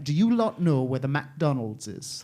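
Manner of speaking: attempted Welsh accent, lightly done. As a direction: ask it in a soft Welsh accent. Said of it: "that's what he said to me".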